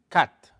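"cat" standing for "cut", short and open; "cat" with a brief open "uh". Shown as a demonstration. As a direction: say "cat" quickly as English "cut". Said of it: "Este es un poquito más rápido".

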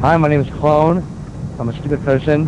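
barely-there dumb guy act; stupid person voice. Pretend. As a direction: lightly play it dim-witted. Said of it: "Now I will do my stupid person".

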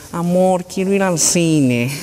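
put-on lightly nasal, coaxing girlfriend voice with a laugh; mock a sweet girlfriend begging her boyfriend; pleading girlfriend. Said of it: "las chicas cuando le dicen".

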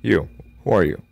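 loud, high calls out the window; shouting out. Acted. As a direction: yell out to the stranger on the road. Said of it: "he shouted".

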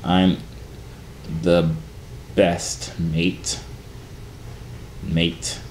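halting, low attempt at a British accent; mock British, word by word. Trying out British accent for a commenter, mock British. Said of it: "I saw your British accent videos".

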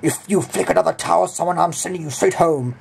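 professor's telling-off. Retold or imitated. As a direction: imitate a teacher issuing a threat. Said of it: "And the professor goes".

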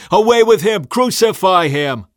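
high, loud mob chant, slowing at the end; yelling. A narrator's reading. Crowd demanding crucifixion from Pilate, yelling. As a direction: cry out for a condemnation. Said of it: "they yelled".

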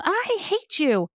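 high, slow whiny "I hate you"; child saying I hate you. Retold or imitated. Three to five year old telling a parent "I hate you". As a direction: drag it out like a sulky little kid. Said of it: "every now and then".

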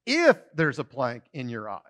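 "If" stressed and falling. Shown as a demonstration. Pastor stressing the word Jesus never said. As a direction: hit "If" firmly, the rest even. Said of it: "anything like".

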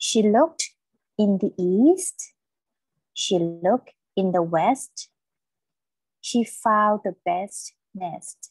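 slow model reading, every word stressed up to "quest", "nest", "rest"; teacher's deliberate reading with crisp "st" in "best"; emphasis on each word. Shown as a demonstration. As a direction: pause between phrases, land clearly on "east", "west", "rest". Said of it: "เวลาอ่านอยากให้เน้นหน่อย".

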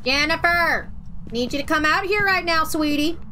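put-on light Minnesota accent, calling sweetly. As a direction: Minnesota mom calling her kid. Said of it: "Why am I doing a Minnesotan accent?".

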